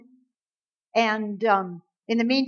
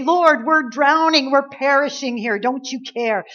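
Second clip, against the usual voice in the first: loud, higher pleading that eases off by the end; frantic pleading; 3 semitones higher, 5 dB louder than usual. Retold or imitated. Disciples wake sleeping Jesus, frantic pleading. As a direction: shout over the storm for help.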